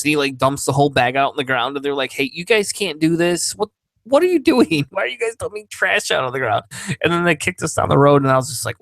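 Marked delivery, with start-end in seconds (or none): 2.1-6.6 raised, incredulous scolding; higher-pitched outraged objection, played for laughs; mock indignant. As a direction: imitate someone protesting in disbelief. Onlookers object to dumped trash.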